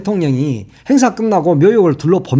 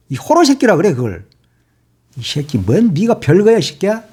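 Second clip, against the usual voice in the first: angry cursing. Real, not acted. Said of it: "정말 화가 나서".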